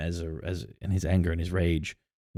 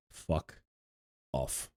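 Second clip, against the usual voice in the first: gruff dismissal; 6 semitones lower, 13 dB quieter than usual. Retold or imitated. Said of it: "And he's like".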